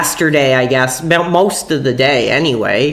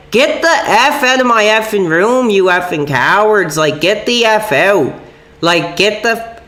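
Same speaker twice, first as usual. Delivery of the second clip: higher, retold angry yell; retold lashing out; 4 semitones higher than usual. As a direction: relive telling the cops to get out. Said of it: "lashing out".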